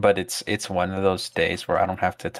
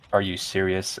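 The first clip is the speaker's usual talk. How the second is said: monotone; 2 semitones lower than usual. Retold or imitated. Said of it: "in a monotone voice say".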